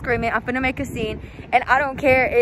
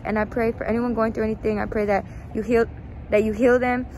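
hushed personal prayer before the confrontation. Acted. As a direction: pray earnestly under the breath. Says a prayer before the video.

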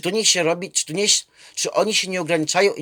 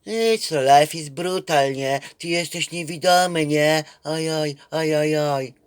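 mock lament. Young man quoted lamenting.

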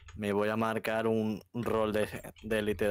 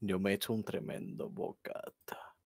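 whispered boast; 3 semitones lower, 6 dB quieter than usual. Real, not acted. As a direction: whisper it like a secret. Presumiendo del bocata en susurro. (susurro presumido)

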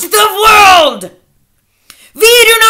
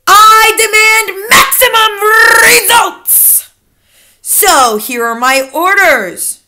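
loud tyrant witch, stretching key words; shrieked orders; 5 semitones higher, 9 dB louder, slower than usual. A narrator's reading. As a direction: proclaim brutal orders at full volume, slowly. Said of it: "shrieked the Grand High Witch".

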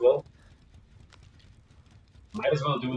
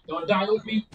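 shouting; 4 semitones higher than usual. Real, not acted. Teammate downed in fight.

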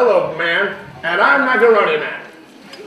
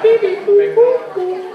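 robot alien beeps; 9 semitones higher than usual. Pretend. Imitating alien robot noises.

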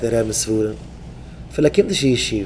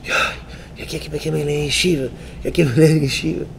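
mock German voice; much slower than usual.

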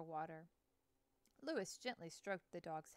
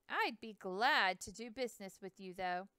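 friendly; 7 dB louder than usual. Acted. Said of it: "in a friendly voice".

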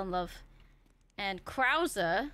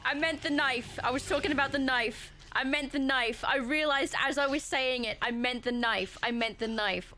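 higher, louder flustered insisting through giggles; embarrassed laughing denial; flustered laughing protest; 5 semitones higher, 3 dB louder than usual. Real, not acted. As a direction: protest your innocence while laughing. Laughing at own innuendo.

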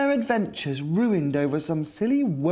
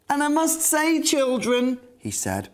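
worried Captain Weezer; 5 semitones higher than usual. Acted. Captain Weezer frets about dangers.

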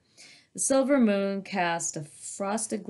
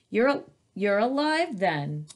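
1 dragon voice try; 2 semitones higher than usual. Shown as a demonstration. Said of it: "I'm trying to figure out what I can do with this mouth".

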